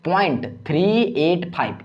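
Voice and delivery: "थ्री एट फ़ाइव" spaced out as separate digits; whole number, then "थ्री", "एट", "फ़ाइव" singly. Shown as a demonstration. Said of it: "एक एक digit पढ़िएगा". ("थ्री एट फ़ाइव" एक-एक अंक अलग करके)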